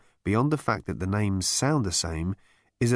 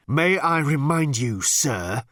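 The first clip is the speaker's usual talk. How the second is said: higher, tense hiss of a furious underling; hissed reminder; 4 semitones higher, 3 dB louder, slower than usual. A narrator's reading. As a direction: hiss it pointedly at your superior. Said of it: "hissed number two at the captain".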